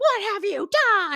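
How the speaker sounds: shrill, very high, loud scream. Retelling how George screamed at Casey: imitating someone screaming. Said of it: "screaming at Casey".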